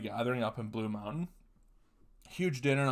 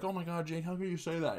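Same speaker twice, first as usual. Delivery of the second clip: higher-pitched mimicry of shocked aunts; mock-appalled aunt; scandalized aunts; 6 semitones higher than usual. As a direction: lightly voice a scolding aunt, pitched up. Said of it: "All the aunts were like".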